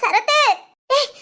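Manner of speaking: tearful calling out; crying. Acted. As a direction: call for help while crying. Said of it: "சிந்து அழுதுகிட்டே ஓடி வராடா". (அழுதுகொண்டே கூப்பிடுதல்)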